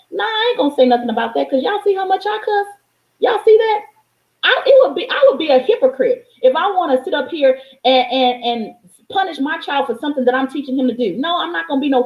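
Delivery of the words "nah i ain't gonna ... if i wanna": high, rising incredulous emphasis; worked up. Real, not acted. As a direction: point out your own cussing, amused. Laughing at her own cussing.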